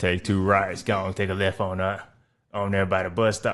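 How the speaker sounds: put-on smoky smoker's voice. Retelling how a man would give directions, imitating a smoker's voice. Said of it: "my man got a smoking voice".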